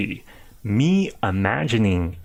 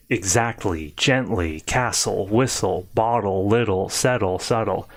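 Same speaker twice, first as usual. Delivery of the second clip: list drill. Shown as a demonstration. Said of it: "Don't practice that way".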